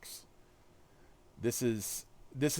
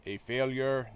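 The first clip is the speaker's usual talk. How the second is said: put-on half-hearted stab at a German accent; crappy German accent; slower than usual. Streamer trying Red Skull's line for viewers, crappy German accent. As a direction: attempt a hammy German villain accent. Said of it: "in my crappy German accent".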